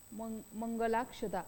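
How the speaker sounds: मंगलाक्षता slowly, with weight on the long ला; slow stressed demo. Shown as a demonstration. Teacher to students, slowly stressing the joined vowel. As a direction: draw out the ला of मंगलाक्षता. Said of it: "यावर आपण जोर देतो".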